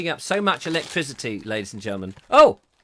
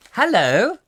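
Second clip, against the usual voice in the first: puppet voice; 8 semitones higher, 9 dB louder than usual. Pretend. Greeting the unicorn puppet.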